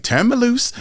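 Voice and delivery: hammed-up cry of turn me loose; high squeal of an old lady; old girl crying out. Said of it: "the old girl be like".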